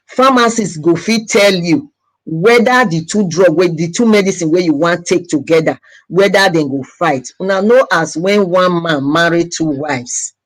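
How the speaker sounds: speaking Nigerian Pidgin English. Real, not acted. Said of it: "I'm going to explain this in pidgin English".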